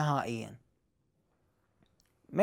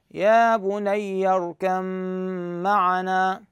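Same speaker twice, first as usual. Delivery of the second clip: Quranic recitation; much slower than usual. Shown as a demonstration. Teacher giving the final model reading, slow recitation. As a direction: recite it slowly, merging اركب into معنا. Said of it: "هكذا".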